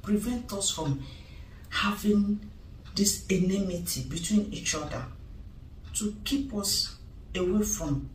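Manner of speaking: quiet tearful lament. Acted. Wife explains to her friend what the ritual meant, quietly in tears. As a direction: let the grief sink the voice. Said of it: "How are you crying now?".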